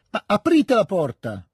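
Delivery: high, loud, slow shout through the house. Acted. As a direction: call out to open the door, slowly. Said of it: "gridò".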